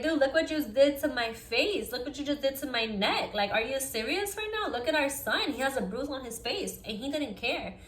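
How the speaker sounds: reenacted exasperated appeal, voice lifted; retold indignant confrontation. Acted confrontation with abusive partner.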